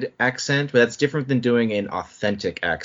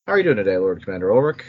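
lightly put-on interviewer voice; playfully experimental presenter voice; Brokoff voice; 3 semitones lower, much faster than usual. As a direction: greet the co-host with a hint of a stylised host voice. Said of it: "leaning into the Brokoff".

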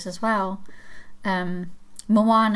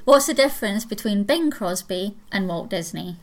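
put-on Scottish accent. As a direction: joke told in a light Scottish accent. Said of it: "jokes that only work in a Scottish accent".

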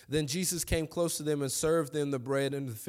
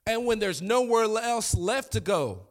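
slow climax; 8 semitones higher, 6 dB louder than usual. Acted. Sermon climax, slow loud build.

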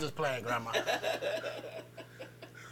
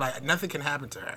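soft creepy tone; 4 semitones lower, 9 dB quieter than usual. Retold or imitated. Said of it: "Are you talking in that tone?".

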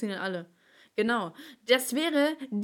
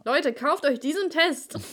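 slow, raised commercial pitch; ad read; 5 semitones higher, 3 dB louder than usual. Pretend. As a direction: sell it like a TV ad. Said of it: "wenn die daraus eine Werbung machen würden".

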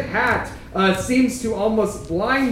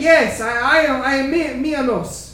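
minotaur character voice; 4 semitones higher than usual. Acted. Minotaur NPC speaking in character.

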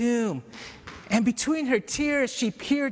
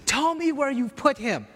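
pressing, higher-pitched plea, firmly stressed; emphatic; 5 semitones higher than usual. Retold or imitated. Mary turning to the gardener, emphatic. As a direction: insist on it, pitch lifted. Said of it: "to the gardener emphatically".

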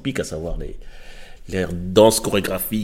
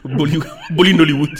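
laughing; 6 semitones higher, 6 dB louder, faster than usual. Real, not acted. Laughing at the made-up word.

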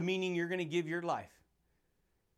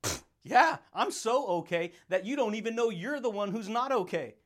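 pumped-up comeback; 3 semitones higher, 3 dB louder than usual. Real, not acted. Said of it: "his reply to skeptics".

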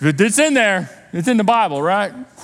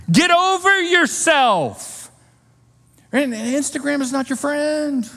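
slow emphatic; 7 semitones higher, slower than usual. Real, not acted. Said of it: "emphatic slow repeat".

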